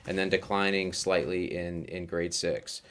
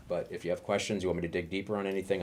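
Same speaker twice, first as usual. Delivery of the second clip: talking fast; 4 dB quieter, faster than usual. Real, not acted. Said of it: "sounding like an auctioneer here".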